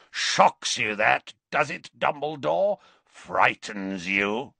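rasping, rising, then slow and drawn out; rasping taunt. A narrator's reading. Greyback trying to shock Dumbledore, rasping. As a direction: needle him in a beast's rasp. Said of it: "a rasping bark of a voice".

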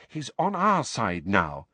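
slow, measured reproof; mildly reproving, drawn-out words. Acted. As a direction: gently tick them off, taking it slowly. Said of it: "said Hermione reprovingly".

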